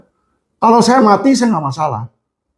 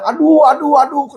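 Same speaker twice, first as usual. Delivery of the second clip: imitated cries of pain; 8 semitones higher than usual. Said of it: "teriakan kesakitan".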